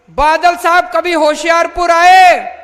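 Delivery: loud accusing rhetorical question; shouted question. Real, not acted. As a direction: call it out to the crowd. Rally speech, rhetorical accusing question. (ज़ोर से चिल्लाकर पूछा गया सवाल)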